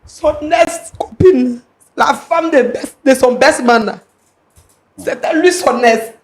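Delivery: slow, heavy delivery; subdued, wounded. Acted. Wronged woman explaining the ex to Monsieur Roland, slow and wounded. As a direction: drag the words out quietly, weighed down by hurt.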